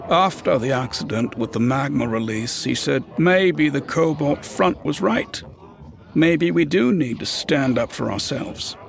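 uneasy talk among workers; worried worker. Acted. Another worker at the table.

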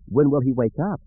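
lightly voiced young girl; small child. A narrator's reading. Child asks about uncle.

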